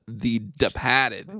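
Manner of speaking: slow Boston "Departed", R's dropped; Boston accent. Acted. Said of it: "I'm so authentically Boston right now".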